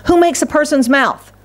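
God's voice, pitched high and emphatic; booming voice of God. Shown as a demonstration. Preacher voicing God's challenge to Moses, emphatic and high. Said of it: "I think God said it like this".

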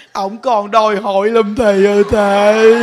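hammed-up grumbling of an old wife; old woman confiding. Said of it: "Ông nói". (giả giọng bà cụ than phiền, to hơn)

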